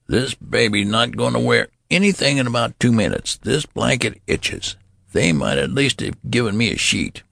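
put-on the old man whining about the blanket; grumbling old man.

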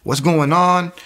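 jolted disbelief, voice jumping up; retold shock at hearing a voice; freaked out. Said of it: "I freaked out".

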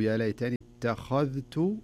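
"اتخذت" slow, light ت and ذ, heavy خ; careful recitation. Shown as a demonstration. Teacher quoting the word to watch, "اتخذت" slow with heavy خ only. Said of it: "انتبه ترقيق التاء والذال".

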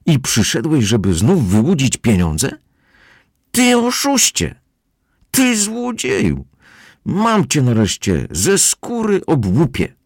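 high, slow furious shouting; furious yell. A narrator's reading. Captain screaming at the swindler, high and furious. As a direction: rage at the swindler, dragging each insult out. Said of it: "wrzeszczał".

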